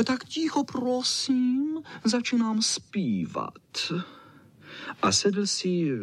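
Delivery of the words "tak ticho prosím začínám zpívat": high, prim voice of a pampered dog; fussy little dog. A narrator's reading. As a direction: demand silence in a much higher, fussy voice. Čau Čau demands quiet.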